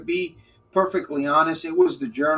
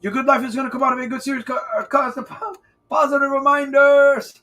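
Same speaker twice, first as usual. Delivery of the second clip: fast, stumbling; 9 semitones higher, 5 dB louder than usual. Shown as a demonstration. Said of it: "I'll say it in slow motion".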